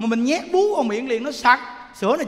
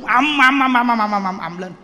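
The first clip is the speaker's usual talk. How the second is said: loud rapid-fire run of booming syllables; mimicked quarrel racket; 7 dB louder than usual. Preacher retelling husband and wife's quarrel, loud mimicked racket. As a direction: rattle off the din of a shouting match. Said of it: "bà với chồng mà đang chửi lộn".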